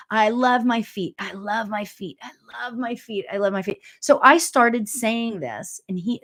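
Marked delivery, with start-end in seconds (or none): 0.1-3.8 affirmation mantra. Shown as a demonstration. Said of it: "So walking is the thing".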